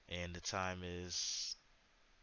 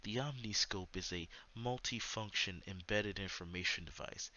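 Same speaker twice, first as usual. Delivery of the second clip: measured documentary narration; narrator voice. Shown as a demonstration. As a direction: read it like a nature film narrator. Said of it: "let me put the narrator voice on".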